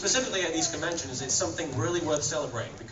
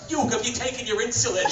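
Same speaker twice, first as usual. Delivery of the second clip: Joey asking; 9 semitones higher, 3 dB louder than usual. Retold or imitated. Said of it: "Joey's like".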